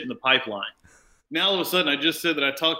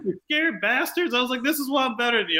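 mock gloating; 11 semitones higher than usual. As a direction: look down on them, pitched very high. Taunting colleagues, retold.

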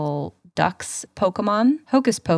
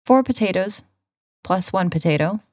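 recipe read. Acted. Reads recipe over music.

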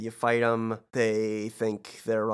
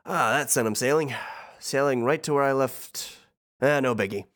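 Hades voice; 3 semitones higher than usual. Acted. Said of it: "Hades says".

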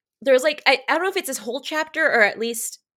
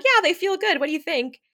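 higher-pitched, upbeat check-in; casual character voice; 8 semitones higher than usual. Acted. Character asks what he thinks of the pants fit, higher-pitched. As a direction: pitch it up, asking for an opinion. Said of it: "and she's like".

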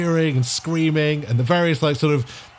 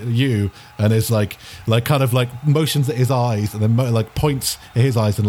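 usual speaking voice

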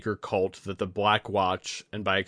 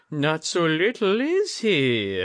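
high, louder snorting lord; 8 semitones higher, 5 dB louder, slower than usual. A narrator's reading. Lord teases Jiro at the table, snorting high. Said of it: "the lord snorted".

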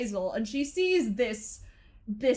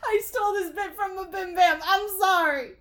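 higher squawky duck voice through laughter; Donald Duck voice; 8 semitones higher, 7 dB louder than usual. Pretend. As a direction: keep the duck voice going, giggling. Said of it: "try doing a Donald Duck impression".

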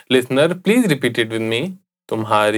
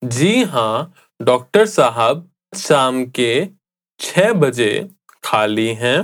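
measured Hindi reply with pauses; slower pace. Shown as a demonstration. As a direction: answer in careful chunks for a learner. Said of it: "let's just speak at a slower pace".

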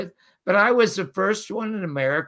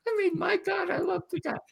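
fond whisper; 10 semitones higher, 6 dB quieter, faster than usual. Real, not acted. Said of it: "unvoiced whisper".

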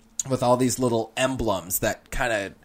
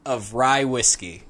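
savouring; 3 semitones higher, 5 dB louder, slower than usual. Acted. Savouring description.

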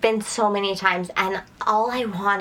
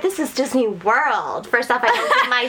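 indignant retelling, a little raised; mock offended; 3 semitones higher than usual. Guest complaining to Disney restaurant staff, mock offended. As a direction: act out being mildly affronted. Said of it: "And I was offended".

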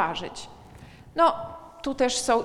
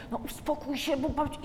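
hushing parent; 2 semitones higher than usual. Retold or imitated. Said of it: "więc my".

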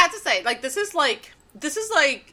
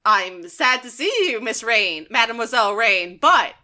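George acted; 2 semitones higher than usual. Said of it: "And George is like".

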